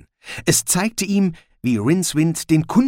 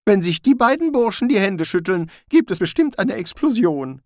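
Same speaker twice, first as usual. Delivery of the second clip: Rincewind, gloomy; 8 semitones higher, 3 dB louder than usual. A narrator's reading. Rincewind foresees trouble.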